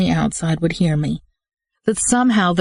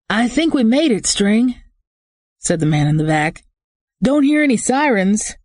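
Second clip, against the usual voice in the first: relieved henchman; 6 semitones higher than usual. Acted.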